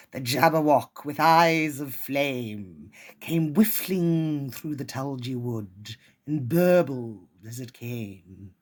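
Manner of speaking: dramatic read-aloud of a nonsense poem; poem recitation. Acted. Poet reading Jabberwocky to her listeners, theatrical. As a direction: perform the poem with relish.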